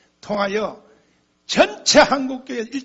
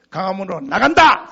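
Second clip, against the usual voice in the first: louder rallying proclamation; proclaimed; 3 semitones lower, 9 dB louder than usual. Retold or imitated. Pastor announcing the march to churches, rallying call. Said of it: "공개적으로 선포했어요".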